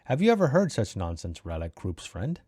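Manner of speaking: odd, theatrical character voice; hammed-up weird storybook talker; Kroop. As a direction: declaim it with lilting, swooping pitch. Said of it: "the voice I did for that guy".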